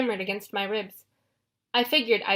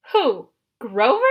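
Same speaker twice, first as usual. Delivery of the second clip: incredulous; 6 dB louder, slower than usual. A narrator's reading. Clarisse in disbelief.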